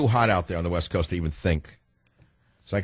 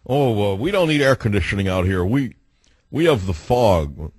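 mocking the locals. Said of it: "all the rubes out here".

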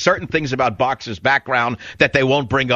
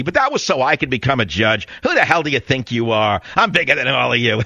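mock arrogant judge; 2 semitones lower than usual. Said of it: "Pardon the pantomime".

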